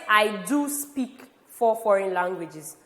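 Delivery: "do" stressed, measured slow pace; emphatic stress on do. Shown as a demonstration. Teacher wants students to actually know, stressing do. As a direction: stress "do" to insist it is true. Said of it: "I have emphasized the fact".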